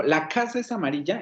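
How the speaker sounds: "La casa es amarilla" as an exclamation, weight on "casa"; exclamatory intonation. Shown as a demonstration. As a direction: put the peak early, on "La casa", then let it drop. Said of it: "en términos exclamativos".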